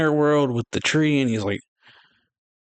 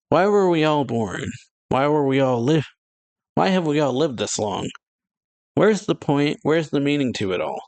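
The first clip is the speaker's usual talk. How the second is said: raised pitch, pressing each question; mildly exasperated rhetorical challenge; acted demanding questions; 4 semitones higher than usual. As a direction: put it to the whole crowd. Acted challenge about life's meaning.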